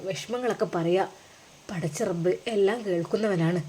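consoling brother. Acted. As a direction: soothe a crying older brother softly. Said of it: "സാന്ത്വനിപ്പിക്കുകയാണ്".

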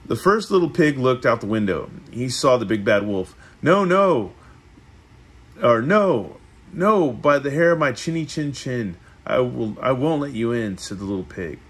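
measured read-aloud with lifted phrase openings; storybook narration. A narrator's reading. Reading the three little pigs to a listener, storybook narration. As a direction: read it like a picture book.

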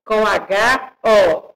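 slow, deliberate "Hotel com H O"; teacher stressing the letters H and O; slow spelling out. Shown as a demonstration. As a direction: spell it out slowly for the class. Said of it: "Olha a separação".

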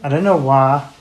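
lightly put-on American accent. Reacting to the rapper being broke, in a put-on American accent. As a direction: slip into a playful mock-American accent. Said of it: "I am doing this American accent".

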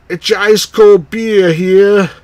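slow, high, loud ballpark vendor call; stadium vendor hawking. Acted. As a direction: hawk snacks up the stands.

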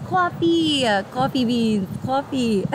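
playful New York accent on "coffee". Shown as a demonstration. Streamer owning up to the accent viewers noticed, New York accent. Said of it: "I have that New York accent".

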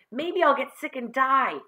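put-on high, loud boy's warning; aggrieved, insistent warning. A narrator's reading. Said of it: "John warned".

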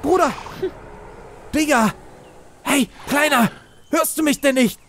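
high, sing-song calling to a pet; coaxing call. Acted. Player coaxing a baby dinosaur to come closer, high sing-song. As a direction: lure the little dino over, coaxing.

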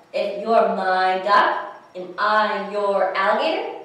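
slow, loud, lilting question; wondering question. Acted. Alligator asks over pancakes, slow wondering question. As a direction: ask it deliberately, lifting at the end.

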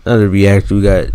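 speaking around a retainer; wearing a retainer. Real, not acted. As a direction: retainer in the mouth. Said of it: "I got my retainers in".

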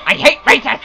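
rising frustration. Real, not acted. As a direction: grumble breaking into a rising outburst. Same words, frustration building.

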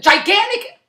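Gigantic pitched high and stretched; emphatic gigantic. Real, not acted. Ranting about huge houses, stretching Gigantic. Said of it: "gigantic houses in the woods".

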